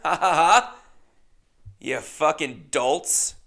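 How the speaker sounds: loud fake laugh then slow sneer; mock evil laugh. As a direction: gloat at the crowd. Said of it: "imagined mocking laugh".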